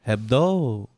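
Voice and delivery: Hebdo said with a clear H sound, as if French. Acted. Teasing his cohost by saying Hebdo with a hard H. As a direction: pronounce the H in Hebdo on purpose. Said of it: "he keeps calling Hebdo".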